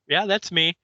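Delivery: a hint of a chirpy old lady. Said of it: "And she's like".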